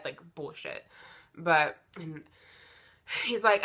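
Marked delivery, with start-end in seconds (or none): 0.4-0.9 whispered under breath; inner voice whisper. Retold or imitated. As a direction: breathe it like a private thought. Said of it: "I'm sitting there in my head".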